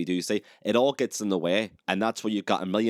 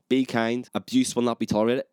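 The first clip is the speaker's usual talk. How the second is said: mock announcer voice; 4 semitones higher, 3 dB louder than usual. Quoting tube announcements mockingly.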